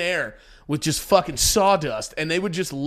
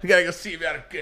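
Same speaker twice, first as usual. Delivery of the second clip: Boston accent impression; much faster than usual. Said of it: "you sound like Sheamus from W W E".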